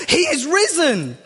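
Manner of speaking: high pouncing witch cry; spring out and shriek it like a witch; witchy old lady. Retold or imitated. Old lady ambushing churchgoer, witchy high cry. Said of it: "she'd pop out and she'd go".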